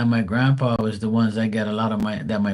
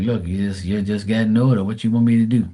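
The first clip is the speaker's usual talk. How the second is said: louder, exasperated retort; telling mom everyone gets older, exasperated; 4 dB louder, faster than usual. Retold or imitated. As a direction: build to a fast, loud comeback. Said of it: "I'm like".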